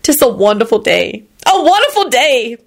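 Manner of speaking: rising into a high thrilled cry; delighted. A narrator's reading. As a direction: thrill at the view. Lucretia delighted.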